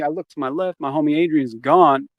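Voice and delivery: usual speaking voice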